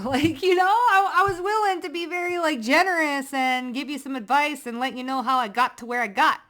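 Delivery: high, loud laughing outburst; laughing rant. Real, not acted. Tarot reader mocking the haters, laughing loudly.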